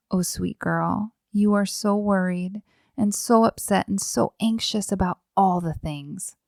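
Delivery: tender, soothing parental tone; calm, understated tenderness; gentle, calm. Acted. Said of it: "gently, calmly saying".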